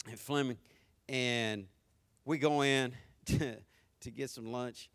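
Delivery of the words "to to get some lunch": normal talking voice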